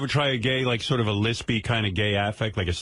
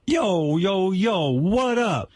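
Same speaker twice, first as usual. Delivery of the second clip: higher-pitched caricatured hip-hop greeting; mock Black American slang; 8 semitones higher, much slower than usual. Shown as a demonstration. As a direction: put on exaggerated Black American street talk. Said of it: "can't you be a wigger?".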